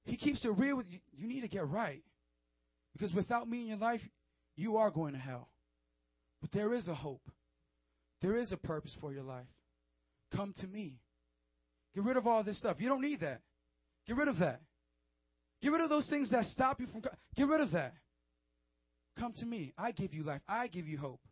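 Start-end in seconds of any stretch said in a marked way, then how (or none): 1.2-5.5 controlled, serious warning without shouting; grave, measured voice of Jesus; peaceful but intense. Acted. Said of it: "he's peaceful, but he's intense". 6.4-10.9 peaceful but intense invitation; Jesus. Acted. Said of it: "he's peaceful, but he's intense". 11.9-17.9 intense, insistent urging; firm commands in short bursts; Jesus. Acted. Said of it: "but he's intense". 19.2-21.2 peaceful, assured invitation; Jesus. Acted. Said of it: "he's peaceful".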